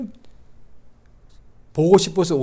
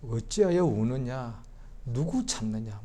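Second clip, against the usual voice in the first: soft slow voice of Jesus; 4 dB quieter, slower than usual. Acted. Jesus' question repeated softly.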